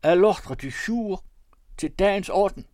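high, loud call to order; calling out over a noisy room; shouted repeatedly. A narrator's reading. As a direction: shout for the room's attention. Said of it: "råbte han flere gange".

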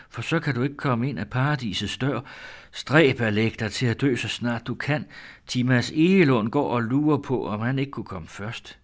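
put-on high, eager voice of a girl lost in her mind; mad daughter's voice. Daughter greets her returned sweetheart, high and eager.

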